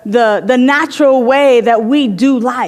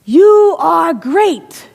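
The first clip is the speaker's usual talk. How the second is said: high, very slow ringing call; 4 semitones higher, much slower than usual. Acted. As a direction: stretch every word out across the valley. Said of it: "yells back the mountain".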